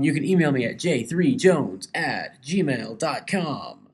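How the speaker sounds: slow, measured announcer read; radio announcer. Real, not acted. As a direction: read the email like a DJ. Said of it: "I sound like a radio announcer".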